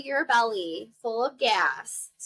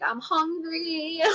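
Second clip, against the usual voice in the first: loopy; 5 semitones higher, slower than usual. Retold or imitated.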